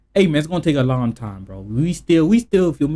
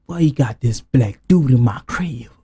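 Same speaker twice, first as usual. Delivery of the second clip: mock stepfather's scolding, lightly lower; angry racist stepfather; 4 semitones lower than usual. Stepfather cursing out his kids over a guest, mock scolding. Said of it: "cursed out his kids".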